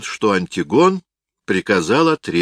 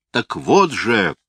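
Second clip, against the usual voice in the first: slow, higher, restrained narrated fury; furious cry; 4 semitones higher, 3 dB louder, slower than usual. A narrator's reading. Antigonus lunges at kneeling Hyrcanus, mildly voiced fury. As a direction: draw it out in understated rage. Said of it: "яростно закричал Антигон".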